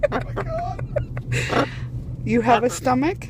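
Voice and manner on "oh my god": high, slow laughing gasp. Real, not acted. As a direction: laugh it out in disbelief. Laughing in disbelief.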